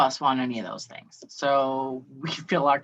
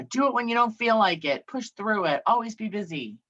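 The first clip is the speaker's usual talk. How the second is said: hustle slogan; 7 semitones higher than usual. Retold or imitated. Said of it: "The other one's going".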